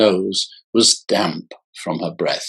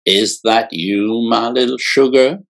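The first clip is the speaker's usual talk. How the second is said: put-on Mississippi Delta accent. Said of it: "A raw purr with an accent of a girl raised in the Mississippi Delta".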